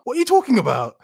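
can't believe what she said; incredulous. Real, not acted.

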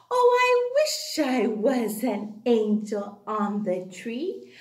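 slow sing-song poem; Christmas poem recital. Real, not acted. Teacher recites Christmas poem for the class, sing-song.

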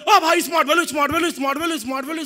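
loud hawker cry, opening with a shout; imitating a hawker, loud then easing off; hawker calling out. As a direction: call the crowd in from outside the mall. Man calling out outside mall.

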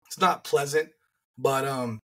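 hoarse voice from the flu. Real, not acted. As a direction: talk through a hoarse, worn throat. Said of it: "As you can hear, I'm hoarse".

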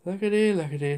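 sadly. Acted. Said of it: "said Mister Grinling sadly".

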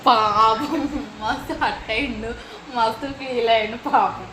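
slowly sympathise with a teasing pout; mock pity. Real, not acted. Mother cooing over her sulking child, slow mock pity.

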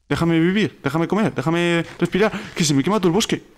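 exasperated plea under attack; flustered pleading. Real, not acted. Pleading while attacked, forest burning.

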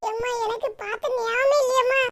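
worried daughter who never saw it; daughter Poomari voice. Acted. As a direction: daughter answering her mother about the lost necklace.

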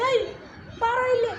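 acting out an indignant challenge; demonstrated confrontation. Shown as a demonstration. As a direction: call him over to face blame. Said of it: "ಒಂದ್ಸರಿ ನಾನು observe ಮಾಡು".

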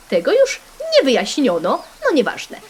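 ordinary talk, nothing marked

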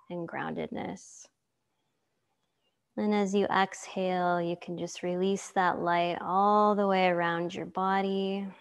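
calm yoga teacher guiding a relaxation; guided meditation. Acted. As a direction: lead them gently into stillness, unhurried.

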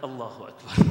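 loud, awed exclamation of faith; amazed Allahu Akbar. Retold or imitated. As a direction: burst out in awe at her words. Amazed reply to her words.

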